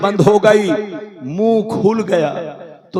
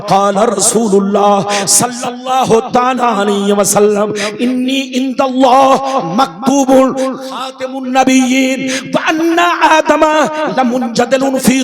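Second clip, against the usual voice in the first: sonorous preacher's chant, rising in the middle; hadith recitation. Real, not acted. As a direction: recite sacred text, stretching the phrase endings.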